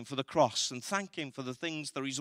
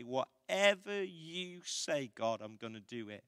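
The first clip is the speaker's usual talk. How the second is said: calm surrender; 3 semitones lower, 4 dB quieter than usual. Pretend. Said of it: "we just calmly say".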